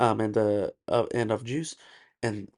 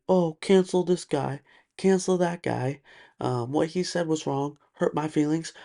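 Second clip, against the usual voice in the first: mock complaining; 4 semitones higher than usual. Imitating people who go around crying over hurt feelings, mock complaining. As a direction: imitate people moaning about being offended. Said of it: "go around crying, complaining".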